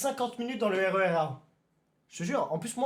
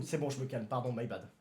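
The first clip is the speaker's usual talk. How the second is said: beaucoup plus bas et doux; redescend, penaud et posé; se calme; 9 semitones lower, 8 dB quieter than usual. Real, not acted. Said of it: "Crie pas, tranquillou". (se calme après les cris, grave et doux)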